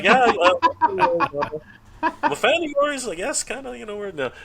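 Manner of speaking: high-pitched, giggly mock fanboy. Confessing to being a fan of his, mock-bashful. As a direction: play the sheepish fan, hammed up and high. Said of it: "it was more generous than that".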